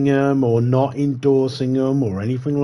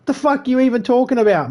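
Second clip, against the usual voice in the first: much higher, mock-baffled retort; incredulous; 14 semitones higher, 4 dB louder than usual. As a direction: toss it back in disbelief. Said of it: "They're like".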